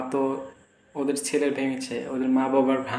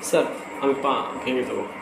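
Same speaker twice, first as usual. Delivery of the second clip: showing son how to say it. Shown as a demonstration. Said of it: "এরকম বলতে হয় বড়দের?".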